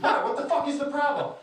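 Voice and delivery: high-pitched retold challenge; confrontational wife. Wife not shy about awkwardness, mock confrontational. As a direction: imitate her bristling, ready to argue. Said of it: "So she's like".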